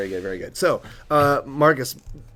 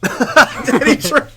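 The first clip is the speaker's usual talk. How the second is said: surprised; 10 dB louder, much slower than usual. Real, not acted. Laughing disbelief at lookalike.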